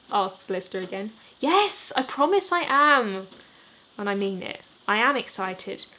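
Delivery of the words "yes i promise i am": earnest promise. Acted. Jimmy reassures, louder.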